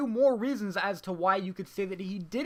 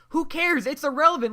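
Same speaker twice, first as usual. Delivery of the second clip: mocking teacher; 8 semitones higher, 6 dB louder than usual. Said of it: "her pointing back saying".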